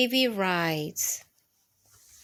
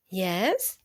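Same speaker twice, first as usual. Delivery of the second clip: hushed, breathy yes; soft whispered reply; 5 semitones lower, 3 dB quieter than usual. Acted. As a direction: answer in a whisper so baby sleeps. Mommy mouse answers softly.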